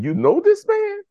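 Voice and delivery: leaps way up in disbelief; can't believe his cousin knows the man; stunned disbelief. Retold or imitated. Astonished teen asks his cousin, voice jumping high in disbelief.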